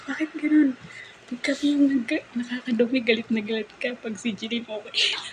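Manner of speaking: mock his protest, fading as it goes; whiny son complaining. Son protests to his mother that Jeline gets a pass, mock whiny.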